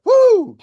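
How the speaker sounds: high, loud celebratory woo; cheering whoop. Real, not acted. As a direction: whoop like a hype man. Cheering for Rita.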